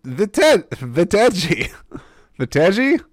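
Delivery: high, loud mock Czech accent; attempted Czech accent. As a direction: take an unsure, hammed-up stab at a Czech accent. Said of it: "I don't even know a Czech accent".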